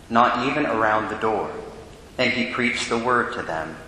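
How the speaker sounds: solemn liturgical proclamation; Gospel reading. Acted. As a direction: read it like a deacon at the ambo.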